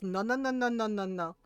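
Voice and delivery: rapid-fire string of refusals; dismissive cut-off. Retold or imitated. Tita interrupting the doctor's excuse, dismissive. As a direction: shut the excuse down, voice falling away.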